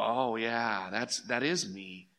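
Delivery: very soft, low, dawning self-recognition; sheepish admission. Acted. Believer answering God in a convicting moment, sheepish and quiet. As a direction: own up quietly, almost to yourself.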